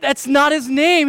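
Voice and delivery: put-on gently but firmly correct a small child; patient dad, reasoning. Dad down at his son's level, patiently correcting. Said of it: "I get down his level".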